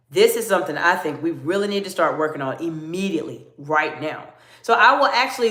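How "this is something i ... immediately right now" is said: a slightly lower, more serious tone. Shown as a demonstration. Coach showing a client how to sound serious, a touch lower. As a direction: drop the voice a bit to sound serious. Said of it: "then I will lower my voice and say".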